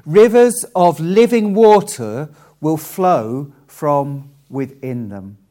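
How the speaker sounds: slow, emphatic Bible reading; scripture reading. Acted. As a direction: proclaim the verse in measured phrases. Reads out Jesus' words from scripture.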